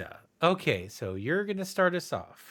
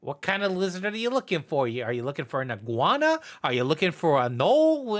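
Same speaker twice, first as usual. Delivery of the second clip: fast, rising annoyed questions; the rat losing patience with the summoner; exasperated rat; 3 semitones higher, faster than usual. Acted. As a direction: rattle off the options impatiently.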